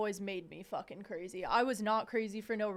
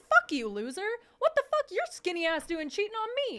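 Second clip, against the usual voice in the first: loud, higher angry tirade; 11 semitones higher, 5 dB louder than usual. Retold or imitated. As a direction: tell off a cheating ex, loud. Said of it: "It's like".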